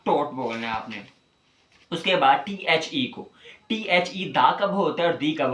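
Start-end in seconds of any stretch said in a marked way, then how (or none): 0.1-0.3 टॉट with a rounded aw vowel; taught said right. Shown as a demonstration. बच्चों को टॉट का सही उच्चारण सिखाते हुए. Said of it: "इसे टाट नहीं बोलना".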